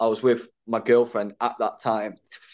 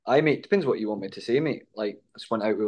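casual demo of a Scottish accent; faster than usual. Shown as a demonstration. Friend asked to show his accent, lightly put-on Scottish. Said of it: "I think my Scottish accent is pretty".

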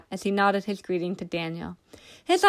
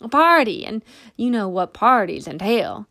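tipsy stumbling; 2 semitones higher, 4 dB louder than usual. A narrator's reading. Tipsy man stumbling over words.

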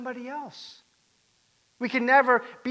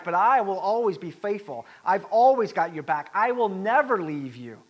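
emphatic retold vow, key words punched loud; bold pledge; 5 dB louder than usual. Peter promising Jesus his loyalty, bold and emphatic. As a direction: declare loyalty boldly, stretching the opening words. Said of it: "Peter was very bold".

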